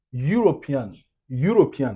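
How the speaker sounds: "European" opening on a consonant-like y glide; European with a Y sound. Shown as a demonstration. Teacher showing learners the first sound, "European" starting like "you". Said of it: "ça sonne comme U".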